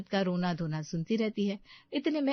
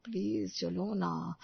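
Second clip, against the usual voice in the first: slow, soft begging; pleading; 5 dB quieter, slower than usual. Acted. Husband begs his wife to come home, slow and soft. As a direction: beg her gently to come home.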